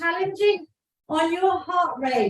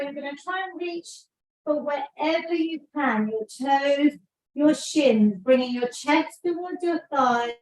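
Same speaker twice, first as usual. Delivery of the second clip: calm stretching guide; 2 semitones lower than usual. Acted. Leads cool-down stretch.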